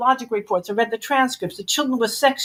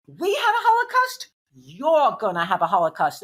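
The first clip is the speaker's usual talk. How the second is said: sharp Brooklyn retort; Brooklyn accent; 2 semitones lower than usual. Retold or imitated. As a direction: mimic a Brooklyn social worker. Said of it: "In that Brooklyn accent".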